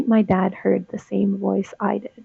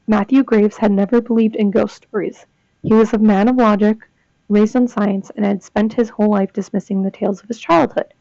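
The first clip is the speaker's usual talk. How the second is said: measured dramatic reading; horror story narration. A narrator's reading. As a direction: narrate the tale with deliberate phrasing. Reads horror fiction aloud.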